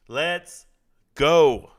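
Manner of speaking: rising into a loud yell; hype shout. Real, not acted. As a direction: cheer the fight on loud. Hyping fight start.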